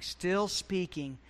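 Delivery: "still" drawn out slowly; stress on still. Real, not acted. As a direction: linger slowly on the word "still". Preacher repeats phrase for weight.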